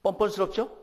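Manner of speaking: loud rhetorical question. Real, not acted. Punchline to congregation.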